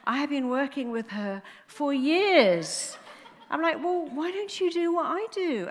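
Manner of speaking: high, loud, through laughter; can't keep the laugh down. Real, not acted. Mocking the psychiatrist to the audience, laughing.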